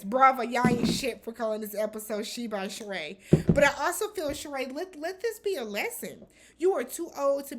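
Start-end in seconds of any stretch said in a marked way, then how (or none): 0.0-3.2 scolding through a laugh. Real, not acted. Host laughing at Bravo's episode title, laughing scold. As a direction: laugh while calling them out.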